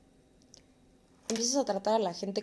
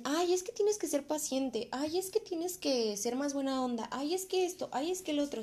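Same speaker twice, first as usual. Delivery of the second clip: higher, sing-song mimicry of preachy advice; mocking whiny quote; 6 semitones higher than usual. Mimicking people who lecture you to be patient, mocking whine. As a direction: parrot the nagging advice, eye-rolling.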